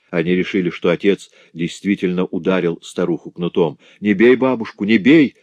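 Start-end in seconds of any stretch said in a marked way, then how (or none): 4.0-5.4 louder tearful plea, with a touch of sobbing; frightened children begging father not to strike grandmother; crying children's plea. A narrator's reading. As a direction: beg him not to hit, half in tears. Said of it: "закричали они, заливаясь слезами".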